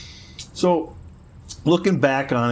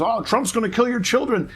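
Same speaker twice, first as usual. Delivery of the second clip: mocking quote; 10 semitones higher than usual. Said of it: "Michael Betchlaw says".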